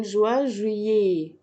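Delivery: "جويي" ending on a clear "é". Shown as a demonstration. Teacher explaining ET to students, "جويي" ending in "é". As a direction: finish "جويي" with an open "é", no T. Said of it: "إي تي بتتنطق إيه".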